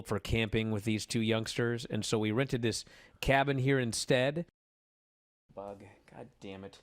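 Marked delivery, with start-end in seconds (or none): 5.5-6.8 choking on a swallowed bug; sputtering after swallowing a bug; just swallowed a bug. Real, not acted. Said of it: "I swallowed a bug".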